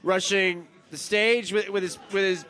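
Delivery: put-on very slow, slurred drunk storytelling; hammed-up drunk, losing the thread. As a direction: drag each word out as if plastered. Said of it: "your accent is drunk".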